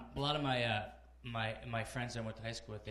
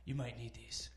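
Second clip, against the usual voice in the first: hushed, breathless doctor warning; doctor's whisper. Retold or imitated. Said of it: "He goes".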